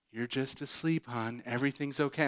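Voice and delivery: put-on soft, reassuring parent calming a child; soothing parent. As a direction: gently settle the panicked kid. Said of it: "And they're like".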